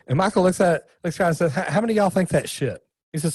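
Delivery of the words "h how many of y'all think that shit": high-pitched retelling of a blunt mentor scolding the room; mock scolding mentor. Gerber scolding the crowd about a bad idea, mock outrage. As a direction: pitch it up, half-hearted outrage.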